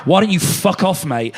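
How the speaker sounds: half-hearted imitation of the chairman squaring up; mild mock pub threat; mock angry snap. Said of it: "the chairman of the football club went".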